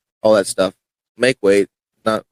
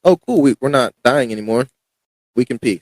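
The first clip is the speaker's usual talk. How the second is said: relieved excitement; 2 semitones higher than usual. Retold or imitated. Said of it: "my body's like".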